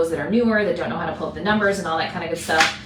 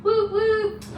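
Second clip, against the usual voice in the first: cheering; 14 semitones higher than usual. Real, not acted. Cheering a colleague's absence.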